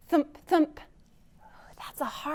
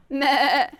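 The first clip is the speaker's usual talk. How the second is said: loud imitated goat bleat; sheepish bleat; 6 dB louder than usual. Little bird trying a new sound, sheepish bleat. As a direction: cry out a wavering goat's meh. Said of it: "he sheepishly cried out".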